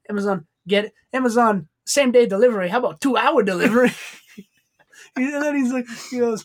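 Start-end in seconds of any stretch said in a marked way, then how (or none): 0.1-3.9 higher, louder mock Asian accent. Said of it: "his Asian accent he puts on".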